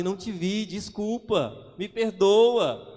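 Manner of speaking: stretched-out apology that makes the driver angrier; drawn-out apology. Retold or imitated. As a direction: plead sorry, dragging every word. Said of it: "porque você fala assim".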